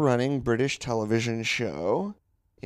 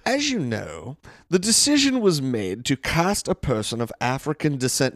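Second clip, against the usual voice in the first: British accent; 2 semitones higher than usual. Shown as a demonstration. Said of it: "now it sounds weird me saying it in a British accent".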